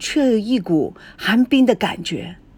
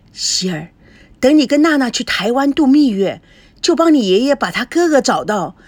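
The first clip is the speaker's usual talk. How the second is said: emotional grandmother. Acted. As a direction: pour out her lifelong wish, voice lifting. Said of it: "他从来没有看到奶奶如此激动过". (激动恳切的奶奶)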